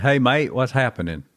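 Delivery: Australian Dixie. Pretend. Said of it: "I said".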